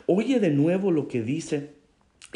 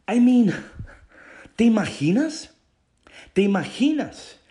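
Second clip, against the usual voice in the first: louder and higher, marveling; excited disbelief; 6 semitones higher, 5 dB louder than usual. Real, not acted. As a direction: burst out in disbelief to the congregation. Preacher marvels at the people.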